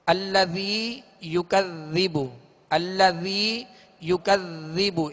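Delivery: "अल्लज़ी युकज़्ज़िबु" with soft th-as-in-this, no whistle; careful, non-sibilant dhal in "अल्लज़ी युकज़्ज़िबु". Shown as a demonstration. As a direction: model "अल्लज़ी युकज़्ज़िबु" slowly, tongue tip on teeth for dhal. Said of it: "इसमें सीटी की आवाज पैदा ना हो".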